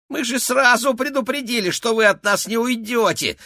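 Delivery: very high, thin squeak of a rat man; squeaky rat voice. A narrator's reading. Rat henchman squeaking threats at the captive boy. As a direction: squeak it out like a cocky little rat. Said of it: "пропищал он".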